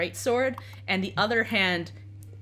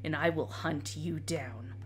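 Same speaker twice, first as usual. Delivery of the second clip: low, grim knight voice; a hint of a doomed knight, lower; doomed undead knight; 3 semitones lower, 5 dB quieter than usual.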